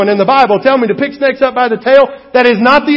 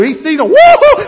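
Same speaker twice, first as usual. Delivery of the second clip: laughing; 10 semitones higher, 5 dB louder than usual. Retold or imitated. Mimics Moses fleeing snake.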